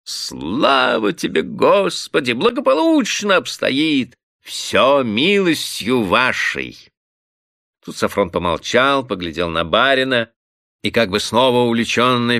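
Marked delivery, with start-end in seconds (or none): 0.0-6.8 high, slow gushing cry; tipsy bailiff gushing at his master, high and drawn out; exclaiming fawningly. A narrator's reading. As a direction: gush over the master. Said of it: "запел пуще прежнего".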